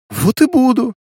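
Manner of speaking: high, loud smirking retort. A narrator's reading. Alina smirks she will look after her. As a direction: toss it back with a smirk. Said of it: "хмыкнула Алина".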